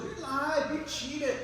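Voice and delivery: loud, high-pitched accusation; acted indignant high yell; accusing rabbit. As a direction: burst out at the cheaters as an outraged rabbit. Rabbit accuses the box turtles.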